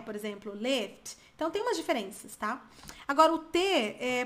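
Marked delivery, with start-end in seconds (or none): 0.5-1.2 British accent. Shown as a demonstration. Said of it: "na Inglaterra".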